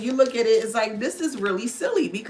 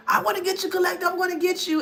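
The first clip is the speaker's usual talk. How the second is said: mock narcissist voice; 6 semitones higher, much faster than usual. Voicing the narcissist's obsessive thoughts.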